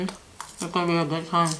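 talking while chewing salad; leafy greens hanging from lips; mouth full. Real, not acted.

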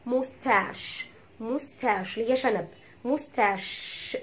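"موستاش" slow, ending in long sh; French-origin sh. Shown as a demonstration. Teacher giving a French-origin example, "موستاش" with drawn-out sh. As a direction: stretch the final sh of "موستاش". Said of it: "وبتتنطق".

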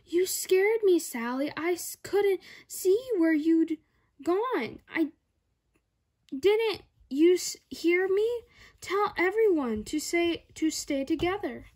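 relieved but cross teacher; teacher telling off the child who wandered off; upset teacher. Acted.

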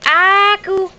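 put-on high sing-song word for baby; cooing first-word prompt; high coaxing prompt. Shown as a demonstration.

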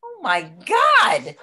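exasperated. Acted. Exasperated at partner in bed.

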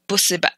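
"Busse ba" ending in a glottal catch; "Busse ba" spoken with an Egyptian glottal stop. Shown as a demonstration. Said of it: "the apostrophe represents that glottal stop".

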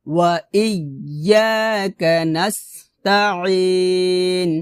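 measured chanting for students to repeat; Quran recitation demo. Shown as a demonstration. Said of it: "আবার".

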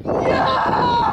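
loud cheerful yell; excited shout. Real, not acted. Kids cheering on the beach.

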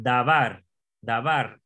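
davar stressed on its last syllable; da-VAR, second syllable carries it; final-syllable stress. Shown as a demonstration. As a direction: land firmly on the var of davar. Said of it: "que se pronuncia así".

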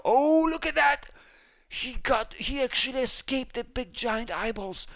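high, loud amazed burst; excited. Real, not acted. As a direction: cheer a teammate's escape. Teammate escapes danger.

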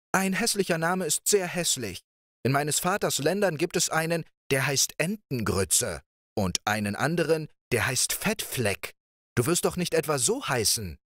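playful princess. Acted. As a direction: coax him like a carefree young princess. Princess talks of names.

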